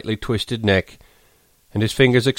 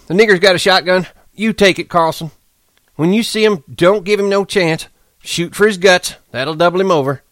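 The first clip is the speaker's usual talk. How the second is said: high, loud, fast eager talk; excitedly; 10 semitones higher, 3 dB louder than usual. A narrator's reading. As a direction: rattle it off, thrilled by the hunt. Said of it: "Whit said excitedly".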